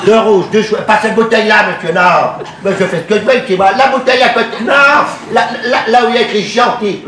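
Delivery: Deux rouges, deux chouettes, said insistently to the waiter; ordering at the bar, insistent. Acted.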